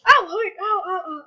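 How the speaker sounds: loud yelp of pain, voice jumping up; sharp real ouch; pained cry. Real, not acted. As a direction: cry out as if your fingers really hurt. Fingers hurt in game.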